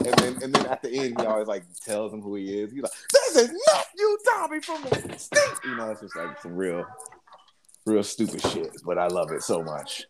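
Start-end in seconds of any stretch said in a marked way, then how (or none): 3.1-5.4 very high announcing voice; radio host reveal. Retold or imitated. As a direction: belt out the host's sign-off.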